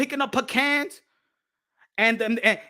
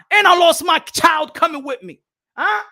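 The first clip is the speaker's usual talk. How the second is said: louder and higher, shouting the loss; indignant shout; 3 semitones higher, 5 dB louder than usual. Retold or imitated. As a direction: hurl it at them, even angrier. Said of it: "they're gonna tell you in broken English".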